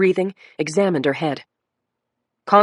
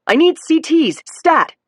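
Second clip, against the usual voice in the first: higher, louder urgent order; shouting; 10 semitones higher, 6 dB louder, slower than usual. A narrator's reading. Doctor shouting orders to the ER staff. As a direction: bark it over the noise. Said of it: "Doctor Bruno was shouting".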